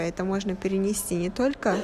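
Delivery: normal talking voice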